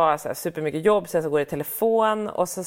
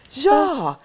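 put-on child's high yes; 8 semitones higher, 6 dB louder than usual. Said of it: "hon bara".

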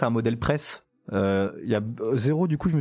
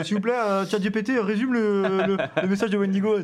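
mock pleading; 7 semitones higher than usual. Jokingly asking ChatGPT to summarize.

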